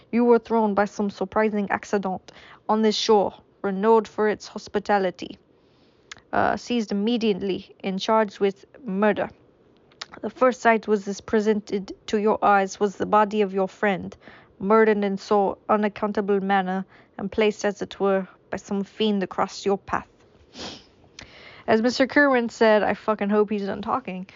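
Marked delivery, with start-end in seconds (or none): 0.1-3.3 put-on a lighter French accent at normal pace. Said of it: "I don't know what this accent is". 3.6-20.1 put-on a touch of a French accent; gentle French gentleman telling the tale. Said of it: "this is French anymore".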